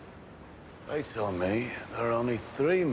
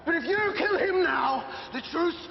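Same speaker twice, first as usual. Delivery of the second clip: angry shout. Real, not acted. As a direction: yell it through clenched rage. Heated quarrel continues.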